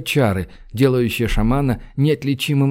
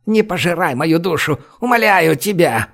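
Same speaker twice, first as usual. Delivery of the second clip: begging in terror; 4 semitones higher than usual. A narrator's reading. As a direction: beg the demon for your soul. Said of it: "полумёртв от страха". (мольба в смертельном страхе)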